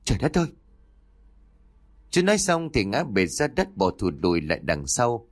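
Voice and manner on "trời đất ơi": high startled exclamation; horrified cry. A narrator's reading. Uncle stumbles on a skeleton, horrified cry. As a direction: cry out in sudden horror, pitched up. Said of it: "kêu lên thất thanh".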